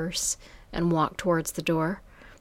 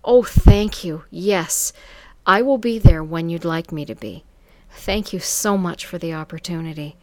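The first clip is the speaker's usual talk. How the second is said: sincere; 7 dB louder than usual. Acted. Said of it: "I said with total sincerity".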